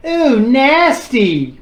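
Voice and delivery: slow, drawn-out disgusted ooh; imitating a disgusted homeowner. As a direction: stretch it out like something smells bad. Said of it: "she goes".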